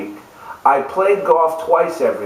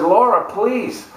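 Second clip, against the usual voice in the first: begging; 3 semitones higher than usual. Retold or imitated. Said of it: "I went to her begging".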